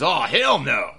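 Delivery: loud mock defiant refusal; a hint of Jeff's drawn-out scoff; imitating Jeff. Jeff refuses the hologram's challenge, mock loud defiance. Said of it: "Brother Nero says".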